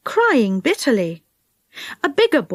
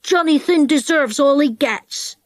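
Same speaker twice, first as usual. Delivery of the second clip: put-on surly big boy; 3 semitones higher than usual. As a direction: grumble as a boy justifying himself. Big boy answers back.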